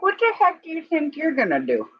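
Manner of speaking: mock challenge to rooster. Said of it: "I'm like".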